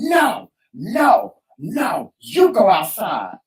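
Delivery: high, emphatic no, then slow firm command; retold motherly scolding; insistent mother. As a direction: imitate a mother firmly ordering outside. Mother voiced ordering child out.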